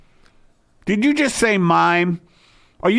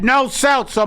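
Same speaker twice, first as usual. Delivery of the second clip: imitating Hitler; 9 semitones higher, 4 dB louder than usual. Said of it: "He purposely said".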